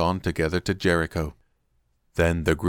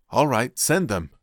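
reluctant agreement; 6 semitones higher, 3 dB louder, slower than usual. A narrator's reading. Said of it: "they shamed him into agreeing".

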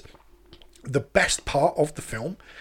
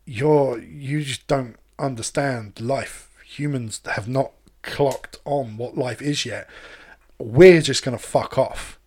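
slow calm AI voice; 3 semitones lower, slower than usual. Retold or imitated. AI voice in film.

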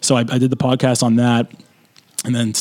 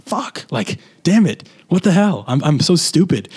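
frustrated outburst; 5 semitones higher, slower than usual. Retold or imitated. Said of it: "just being like".

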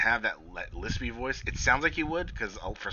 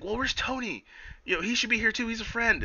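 high whiny question; high mock voice; 12 semitones higher than usual. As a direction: squeak it petulantly. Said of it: "she's like".

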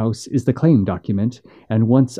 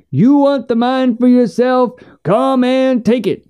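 shouting; 10 semitones higher than usual. Acted. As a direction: hurl the challenge up at him.

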